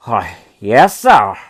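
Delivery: an embarrassed man groping for words; flustered gentleman. Acted. Charity gentleman, taken aback.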